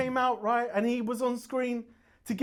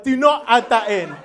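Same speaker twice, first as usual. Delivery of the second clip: tag; 8 dB louder than usual. Retold or imitated. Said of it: "She was like".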